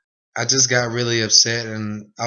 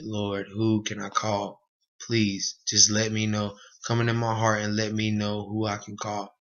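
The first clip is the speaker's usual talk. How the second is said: hushed prayer; 5 dB quieter than usual. Retold or imitated. Retold desperate prayer in group home.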